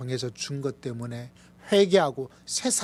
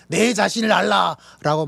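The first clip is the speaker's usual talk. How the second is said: quoting Socrates, mock grand; 4 semitones higher, 8 dB louder than usual. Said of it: "소크라테스 형님께서 말하기를".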